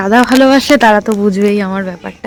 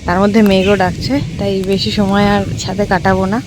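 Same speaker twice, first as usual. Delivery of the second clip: talking with a toothbrush in mouth; while brushing teeth; 2 semitones lower than usual. Real, not acted. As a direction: speak around the toothbrush. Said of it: "আমি brush নিয়ে এসেছি, brush করতে করতে".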